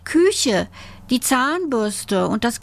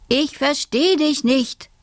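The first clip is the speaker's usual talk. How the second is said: higher-pitched puzzled mother; lightly voiced mother who can't hear; hard-of-hearing mother; 7 semitones higher than usual. A narrator's reading. Mother tells Alice she cannot understand, in a higher voice. Nearly deaf mother answers.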